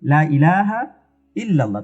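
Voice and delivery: লা said short without lengthening in লা ইলাহা; a quick, unlengthened লা as the wrong way; the wrong reading with a clipped লা. Shown as a demonstration. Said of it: "শুধু লা যদি বলি".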